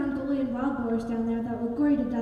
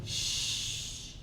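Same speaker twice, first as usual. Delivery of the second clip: shushing; 8 dB quieter than usual. Acted. Attendant hushes passenger.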